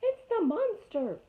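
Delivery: high, loud, drawn-out shriek; owl screech. Acted. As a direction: shriek it in alarm.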